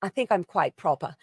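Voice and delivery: lightly put-on English accent; a hint of proper English. Shown as a demonstration. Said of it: "I almost sound quite English".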